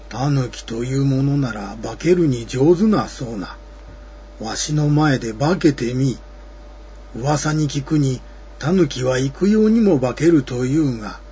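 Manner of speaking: a hint of a spooky old man; creaky wise old man. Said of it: "するとおじいは".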